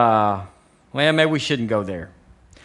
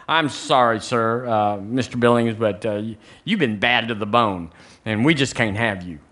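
lightly acted, lower regretful rejection; apologetic employer; 4 semitones lower than usual. Employer turning down a job applicant, mildly apologetic. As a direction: let them down haltingly, a touch of official regret.

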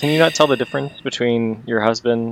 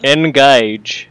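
Patrick Stewart impression; 3 semitones higher, 4 dB louder than usual. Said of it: "that was my, uh, Patrick Stewart".

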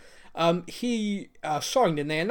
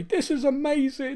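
excited; 10 semitones higher than usual. Retold or imitated. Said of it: "It was suddenly".

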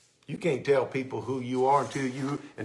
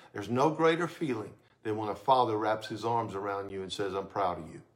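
tender; 4 semitones lower, 4 dB quieter than usual. Real, not acted. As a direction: lower and softer, hushed and tender. Father's embrace, hushed.

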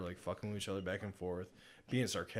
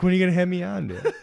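louder, higher plea cracking with laughter; laughing mock plea; 9 semitones higher, 16 dB louder, faster than usual. Retelling how he nagged the host for a podcast spot, laughing. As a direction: ham up the begging.

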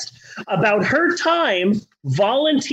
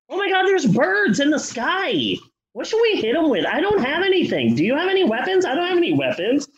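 giddy Barb and Star voice; 5 semitones higher than usual. Pretend.

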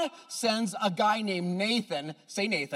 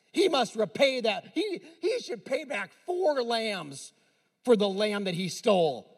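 furious king. Retold or imitated. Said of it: "the Bible says he was furious".

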